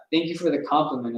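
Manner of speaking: smooth and quick, mildly suave. Acted. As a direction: play it cool, a light touch of charm. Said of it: "I said, suave as hell".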